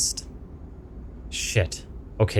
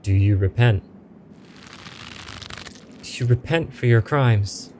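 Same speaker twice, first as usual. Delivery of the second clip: a hint of a ghostly judge demanding repentance; lightly voiced spirit pressing for an answer; stern ghost; 3 semitones higher than usual.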